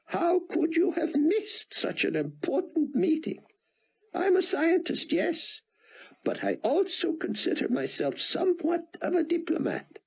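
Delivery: put-on somber Israeli accent. Rosenzweig asking Buck why he missed the meeting, somber Israeli accent. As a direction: press him earnestly in a thick Israeli accent. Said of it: "spoke in a somber voice".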